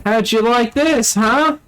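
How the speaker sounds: high, slow taunting soldier imitation; Alan Tudyk quip. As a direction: taunt like a cocky marine in battle. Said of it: "that's Alan Tudyk right there".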